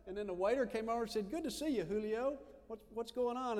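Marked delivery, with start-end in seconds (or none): 1.3-3.6 cheery greeting. Retold or imitated. Waiter greets Julio.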